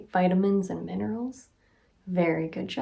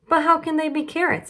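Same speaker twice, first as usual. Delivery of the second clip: mock disbelief; 9 semitones higher, faster than usual. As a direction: feign total astonishment.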